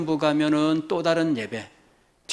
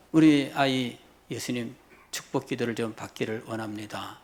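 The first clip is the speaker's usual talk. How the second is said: low, softened, courteous plea; modelling a deferential parent's request; polite, respectful request; 5 semitones lower, 3 dB quieter than usual. Acted. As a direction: ask humbly on your child's behalf. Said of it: "이렇게 정중하게 하고".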